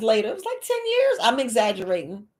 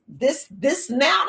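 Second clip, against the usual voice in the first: slow emphatic shout; 4 semitones higher, much slower than usual. Retold or imitated. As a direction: insist on every word. Insisting on her own age.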